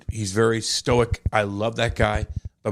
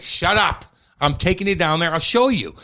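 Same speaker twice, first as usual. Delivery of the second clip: teasing dad; 4 semitones higher than usual. Retold or imitated. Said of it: "And he's like".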